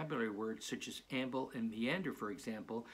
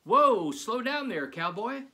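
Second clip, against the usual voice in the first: big loud slow call, pitched high; playful zombie kid hollering hello; zombie kid greeting; 11 semitones higher, 13 dB louder, slower than usual. Acted. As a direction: stretch it out like a friendly drawn-out hail.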